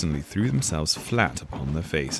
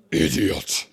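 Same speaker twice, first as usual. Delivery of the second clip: insult; 3 semitones lower, 4 dB louder than usual. Acted. Queen insults Knave.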